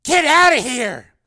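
long, high full-force yell; urgent loud shout. Acted. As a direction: scream the warning, drawn out. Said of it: "Tyler yelled at Cord".

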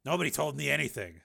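a touch of bitterness, lightly voiced; bitter. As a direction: let some resentment show in it. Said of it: "said Steele bitterly".

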